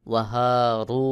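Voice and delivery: ওয়াহারু with a thick, heavy র; ওয়াহারু, র ভারী করে. Shown as a demonstration. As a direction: say ওয়াহারু with the র full-mouthed. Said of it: "একটু আওয়াজ মোটা করে পড়তে হবে".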